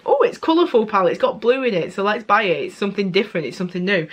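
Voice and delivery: lightly hammed-up enthusiasm; imagined eager buyer. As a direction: imitate a shopper talking themselves into it. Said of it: "'cause you think".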